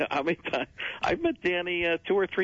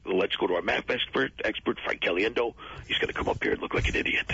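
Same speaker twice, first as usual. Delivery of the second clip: mocking teacher voice; 2 semitones lower than usual. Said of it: "I would just do his voice".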